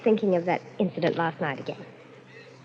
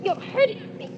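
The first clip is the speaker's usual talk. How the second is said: terrified pleading; 13 semitones higher, much slower than usual. Acted. Bride being strangled.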